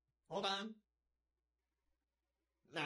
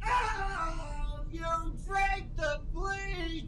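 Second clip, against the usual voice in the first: mock angry shout; slower than usual.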